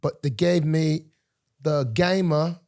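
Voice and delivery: put-on London accent, dropped r's. Guest describing Tuesday's plans, mock London accent. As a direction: keep up a badly faked London accent. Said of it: "Is that a London accent".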